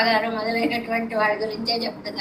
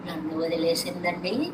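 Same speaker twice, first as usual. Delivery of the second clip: grieving mother; 5 semitones lower, 7 dB quieter than usual. Acted. Mother lamenting her daughter left.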